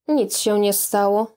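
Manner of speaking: ordinary delivery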